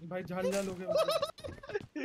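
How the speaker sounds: high, slow pained whine; stinging eyes. Real, not acted. Eyes stinging after a friend's remark, pained whine. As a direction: whine through burning eyes.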